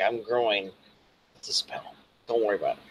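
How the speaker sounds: hushed, secretive aside; conspiratorial whisper. Acted.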